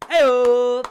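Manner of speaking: high and loud; loud hey-o. Real, not acted. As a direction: belt it out. Loud exclamation.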